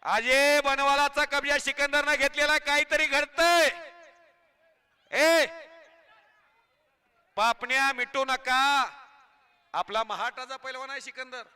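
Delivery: rousing announcer patter over the crowd; live commentary. Acted. Commentator hyping the crowd at the kusti ground, announcer patter.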